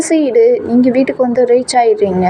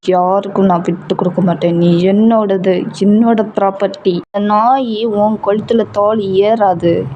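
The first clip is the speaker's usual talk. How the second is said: mild menace in a lowered voice; cold anger; 3 semitones lower than usual. Acted. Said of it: "ரொம்ப கோவமாவே, ரொம்ப கோல்டாவே". (குளிர்ந்த கோபத்துடன் மிரட்டும் காதலன்)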